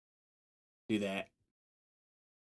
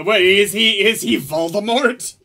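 surprised; 7 semitones higher, 8 dB louder than usual. Real, not acted. Sudden realization while watching.

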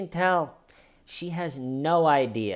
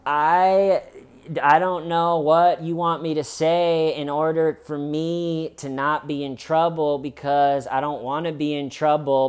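raised, insistent mock pleading; desperate pleading, imitated; 4 semitones higher, 4 dB louder than usual. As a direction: imitate someone desperately talking over noise. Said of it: "she is desperately trying to say".

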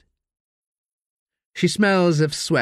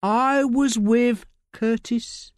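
high, coarse London voice of a desperate addict; Layla, rough addict; 12 semitones higher, much slower than usual. Acted. Addict Layla snapping at detective Josie in interview. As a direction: snap like a strung-out woman in custody.

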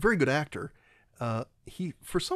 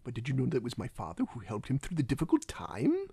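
Christoph Waltz; 4 dB quieter than usual. Acted. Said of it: "my problem with Christoph Waltz is".

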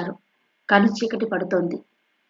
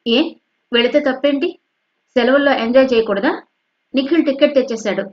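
a touch sharp, higher daughter voice; sharp retort; 4 semitones higher, 4 dB louder than usual. Acted. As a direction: snap back at mother, mildly. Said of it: "కాస్త తీక్షణంగా".

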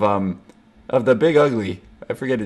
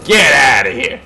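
alarmed shout; 4 dB louder than usual. Real, not acted. Player shouting at attackers in the game, alarmed yell. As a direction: yell them away in sudden alarm.

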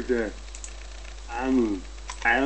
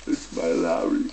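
"It's my Larry" much lower, ending with a rise; 7 semitones lower than usual. Acted. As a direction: drop into a low questioning voice. Same words high, then low.

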